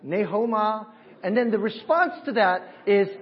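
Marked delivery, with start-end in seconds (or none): 0.0-0.9 loud, high-pitched call by name; greeting demo. Shown as a demonstration. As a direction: demonstrate hailing someone, high and loud. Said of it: "I'll say".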